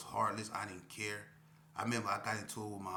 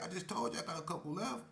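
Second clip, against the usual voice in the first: voicing K P, annoyed; 9 semitones higher, faster than usual. K P voiced in quarrel.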